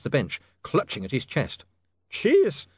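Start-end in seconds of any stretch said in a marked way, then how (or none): 2.1-2.7 drawn-out desperate moan. A narrator's reading. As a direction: groan it out in need. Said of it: "he moaned".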